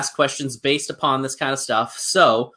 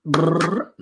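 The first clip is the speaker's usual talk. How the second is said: mock music jingle. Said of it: "Here's our music for it".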